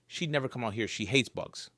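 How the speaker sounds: soft hushed voice; quiet whisper. Acted. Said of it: "I whispered".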